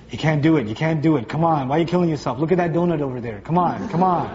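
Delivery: lightly voiced low tempter; tempting inner voice. Whispers of temptation to someone on a workout program, coaxing. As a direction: coax them to quit, pitched low.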